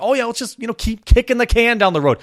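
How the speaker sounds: mock politician voice. Mocking politicians' attitude.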